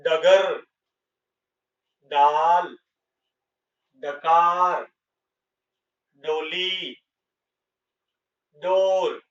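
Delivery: each word spoken slowly and separately, loud and distinct, the initial ड a hard retroflex d; teacher modelling for pupils, each word set apart; clear model reading. Shown as a demonstration. Teacher reading a word list aloud for the class, crisp ड. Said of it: "अब उच्चारण करते हैं इनका".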